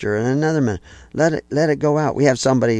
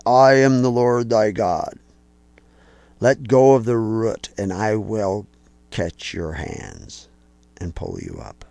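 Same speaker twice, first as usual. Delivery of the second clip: slow, solemn voice of God; booming voice; slower than usual. Acted. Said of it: "he hears this booming voice".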